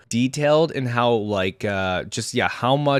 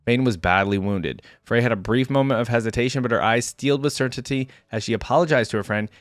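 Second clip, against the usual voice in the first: measured dramatic lore reading; story narration. A narrator's reading. Reader telling viewers of Vayne's training, story narration. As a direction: read it out like a fantasy tale. Reads champion lore aloud.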